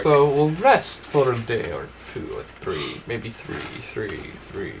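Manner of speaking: slow mock Italian accent. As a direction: drawl it out in a hammy Italian accent. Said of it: "Why are you starting to do the Italian accent?".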